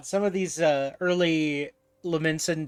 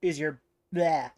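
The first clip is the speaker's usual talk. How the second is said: put-on pirate accent; 2 semitones lower than usual. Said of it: "pirate voice".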